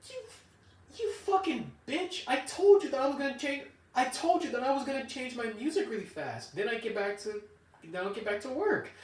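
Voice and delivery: high, heated exasperated yell; inner rage. Retold or imitated. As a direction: rant at the boss in your head. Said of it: "deep down inside, I'm like".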